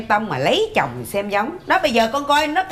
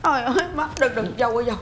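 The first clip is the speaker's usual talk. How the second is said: fake crying. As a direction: put on crocodile tears to get sympathy. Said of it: "em làm gì mà má khóc vậy em". (giả vờ khóc than, mếu máo)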